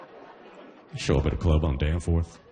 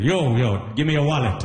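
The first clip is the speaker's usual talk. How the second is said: Trini mugger; 5 semitones higher than usual. Retold or imitated. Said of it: "It's like".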